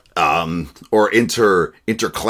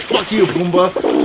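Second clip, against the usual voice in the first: high, slow put-on meerkat voice; mock cartoon meerkat; 7 semitones higher than usual. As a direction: drag it out in a silly critter voice. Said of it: "It's like".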